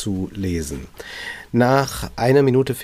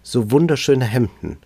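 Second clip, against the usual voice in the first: a touch of tearful sobbing, lightly read. Acted. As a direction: read it with a mild sob. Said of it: "schluchzte sie".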